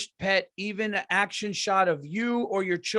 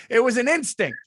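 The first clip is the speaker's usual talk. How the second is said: laughing through the words; 4 semitones higher, 4 dB louder than usual. Real, not acted. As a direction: chuckle as you explain. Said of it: "laughs at the acting praise".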